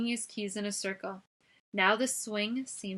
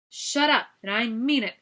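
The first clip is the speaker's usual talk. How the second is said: angry shout; 2 semitones higher, 8 dB louder than usual. A narrator's reading. Guard threatening.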